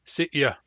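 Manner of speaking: hard Y in "Sitya". Shown as a demonstration. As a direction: break "Sitya" sharply just before the Y. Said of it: "Hard Y".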